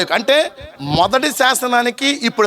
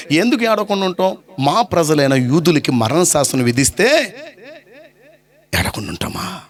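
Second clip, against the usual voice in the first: acted tearful plea; 2 semitones lower than usual. Queen laments her people's death decree, acted tearful plea. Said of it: "ఎందుకు ఏడుస్తున్నావు నువ్వు".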